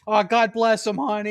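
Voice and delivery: put-on cooing Boston accent. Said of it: "People in Boston are just fucking rude".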